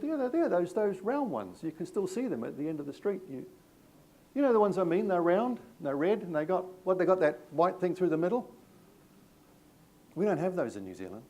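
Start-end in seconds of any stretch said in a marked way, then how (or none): 0.0-8.5 lightly voiced officer, pitched higher, explaining patiently; a hint of a policeman pointing out the obvious; retold police officer.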